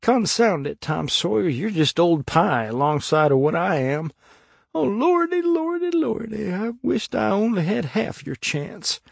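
high, whining tearful wail; snuffling lament. A narrator's reading. Huckleberry laments to Tom he is worse, snuffling wail. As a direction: wail it self-pityingly, climbing very high. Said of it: "Huckleberry began to snuffle too".

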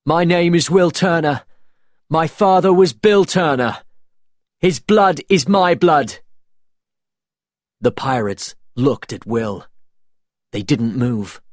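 high, loud, defiant declaration; defiant young hero. Acted. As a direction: proclaim it to the pirates with resolve. Will's defiant stand.

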